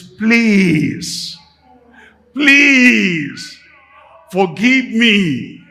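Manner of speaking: high, loud, crying plea; desperate begging. Retold or imitated. Man begging forgiveness a third time, crying out. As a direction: wail it out, begging on the edge of tears. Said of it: "Is that a right attitude?".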